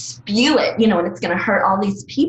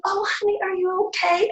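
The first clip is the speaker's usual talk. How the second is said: patronizing sympathy; 13 semitones higher than usual. Retold or imitated. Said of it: "and then people are like".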